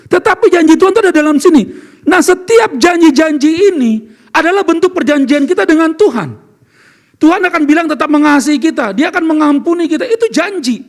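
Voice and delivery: preaching at full force. Real, not acted. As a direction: drive each promise home to the room. Preacher pressing God's promises.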